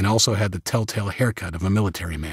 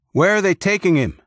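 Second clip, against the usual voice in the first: alarmed question; 10 semitones higher, 4 dB louder than usual. A narrator's reading. Worried friend asks about wounded man.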